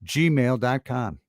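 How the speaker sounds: slow, deliberate announcer read; radio voice. Shown as a demonstration. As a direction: spell it out like a DJ. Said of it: "while I got my radio voice going".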